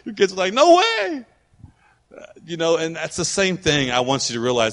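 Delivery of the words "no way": high-pitched mock kid protest; kids' protest. Kids refusing their parents, high mock protest. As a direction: blurt it high, drawn out.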